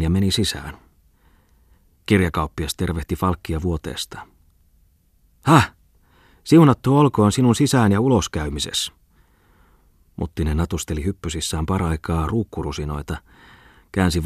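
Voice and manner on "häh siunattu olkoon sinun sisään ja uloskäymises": high, loud booming greeting from bed; a fat merchant hailing his friend; jovial old man. A narrator's reading. Bookseller greets Falk from bed, high and booming.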